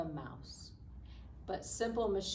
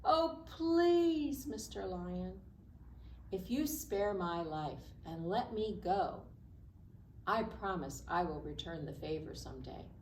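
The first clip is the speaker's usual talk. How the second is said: pleading little mouse. Acted. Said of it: "the little mouse squeaked".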